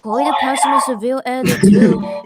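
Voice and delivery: fast, loud angry burst; angry outburst. Real, not acted. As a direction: blurt it out in frustration. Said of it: "I'm gonna say this out of anger".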